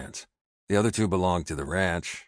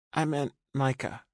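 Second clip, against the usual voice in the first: put-on weary young woman; 9 semitones higher than usual. A narrator's reading. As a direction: sound worn out, brushing it off. Rachel clarifies.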